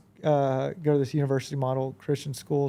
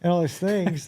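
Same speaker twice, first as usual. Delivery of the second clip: higher, exasperated venting; exasperated outburst; 4 semitones higher than usual. Retold or imitated. Venting to his board member about two stressful months, exasperated and higher. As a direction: let it all pour out, fed up.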